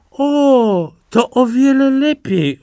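high surprised wife's exclamation; light up with joy; wife hears of the sheep, in high surprised delight. Acted. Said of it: "odparła kobieta".

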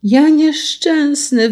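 high, slow lament; wailing exclamation. A narrator's reading. Carter finds the second barrel empty, wailing exclamation. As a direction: cry it out in misery. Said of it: "wykrzyknął".

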